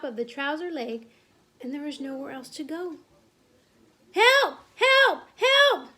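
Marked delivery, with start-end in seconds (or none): 4.1-5.9 high, loud cries for help; screaming. A narrator's reading. Cook with a mouse in his trousers, screaming. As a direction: scream each one as a separate burst. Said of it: "the man was screaming".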